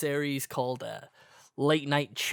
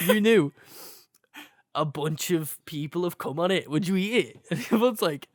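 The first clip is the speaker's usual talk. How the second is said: breaking up mid-quote, higher pitched; laughing; 5 semitones higher than usual. Real, not acted. Retelling the lads' apple joke, laughing helplessly. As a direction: struggle to get the joke out through giggles.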